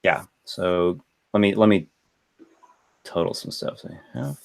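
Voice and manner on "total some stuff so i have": muttering to himself. Real, not acted. GM tallies milestones to himself.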